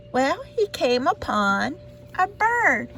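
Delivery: plain reading voice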